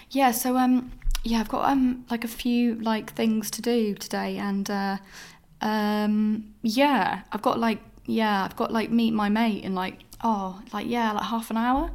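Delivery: hesitant, drawn-out fumbling for an excuse; stalling with excuses. Retold or imitated. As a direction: re-enact awkward stalling, filler by filler. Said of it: "found myself making up excuses".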